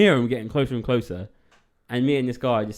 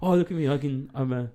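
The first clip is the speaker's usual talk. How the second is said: mock boastful; 2 semitones higher, 4 dB louder than usual. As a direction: brag like a proud actor. Mock boastful actor self.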